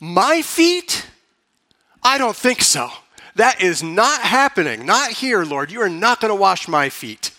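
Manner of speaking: preacher lightly voicing an indignant Peter; Peter blurting. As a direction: blurt it out in mock protest. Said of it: "Peter blurts out".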